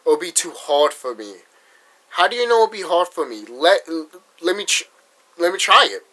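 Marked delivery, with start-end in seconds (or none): 2.1-6.0 higher, insistent plea to be allowed; indignant plea. Retold or imitated. Vlogger retelling arguing with his old school, raised insistent plea. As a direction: argue back hard, voice raised higher.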